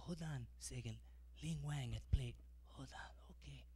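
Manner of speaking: put-on accent, rising to a mock yell; mock Chinese accent. Clerk coaching at T-ball.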